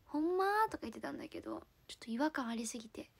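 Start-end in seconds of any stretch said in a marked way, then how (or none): 0.1-0.4 put-on girlish try at Kansai dialect, a little louder; dabbling in Kansai dialect; imitated Kansai dialect. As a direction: try out a Kansai accent on a question. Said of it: "その子の真似をしようと思ってる".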